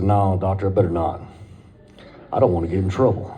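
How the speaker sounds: low, deliberate voice; comic low voice to the doctor; slow and low. Retold or imitated. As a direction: drop the voice low and take it slow. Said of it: "I talked real slow and real low".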